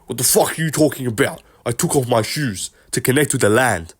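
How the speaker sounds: put-on Izzy voice, indignant; a lightly voiced, exasperated Izzy; Izzy impression. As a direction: rant as an offended Izzy, rising at the end. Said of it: "that's actually not a bad Izzy impression".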